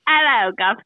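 badly faked Cockney greeting; mock Cockney accent. Co-host teasing about a sudden British winner, mock Cockney. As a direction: put on a joky Cockney accent. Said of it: "She suddenly has a Cockney accent now".

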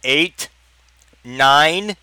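drawn-out countdown numbers, rising in volume; counting out. A narrator's reading. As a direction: count deliberately, stretching each number. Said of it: "Philip was still counting".

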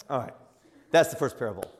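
normal talking voice

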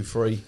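THREE drawn out with a careful TH; corrected TH. Shown as a demonstration. Man mimicking his teacher wife's correction, careful TH on THREE. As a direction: say THREE with tongue on the teeth, not an F. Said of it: "Don't talk like it in front of the kids".

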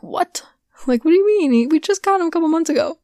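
breathy, high, stunned whisper; shocked disbelief. Retold or imitated. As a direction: gasp it out in disbelief. Shocked reaction to fish news.

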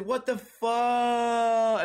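last word dragged out long and loud; cut-off swearing. Retold or imitated. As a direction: stretch the curse until it gets cut off. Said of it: "then they got run over".

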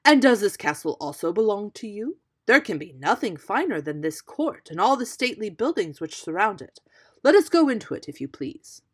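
loud, animated storybook exclamation; lively, projected royal enthusiasm; king's excited cry. A narrator's reading. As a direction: gush as an impressed king. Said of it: "cried the king".

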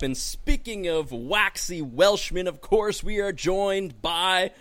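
rising, drawn-out build to a name; announcer introduction. Pretend. Host introducing a waxy Welshman, showy announcer build. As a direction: build up the next guest like an announcer.

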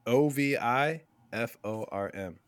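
slowly spelled, letter by letter; spelling it out. Shown as a demonstration. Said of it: "Can you spell it?".

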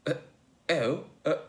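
stammer, then pose it slyly; wry. Acted. Logue collects himself and challenges Joe, wry. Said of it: "Logue questioned, wryly collecting himself".

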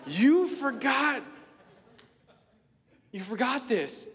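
high, loud, slowed call to Cindy; calling after her, proud and breathless; eager calling out. Retold or imitated. Boy running after Cindy to return his picture, eager. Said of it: "I said".

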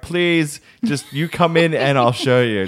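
imitated embarrassed child bargaining; mock pleading. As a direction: beg mum, lightly hammed up. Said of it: "I'm like".

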